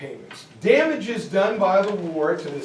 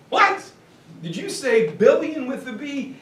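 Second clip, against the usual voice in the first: shocked what; 5 semitones higher than usual. Retold or imitated. Germans react to the sum.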